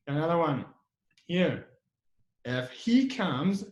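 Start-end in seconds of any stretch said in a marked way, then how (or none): 2.4-3.6 slow, separate "If", rising at the end; weight "If" and take it slowly; stress on IF. Shown as a demonstration. Teacher modelling a condition, slow stressed "If". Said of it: "you put a stress on if".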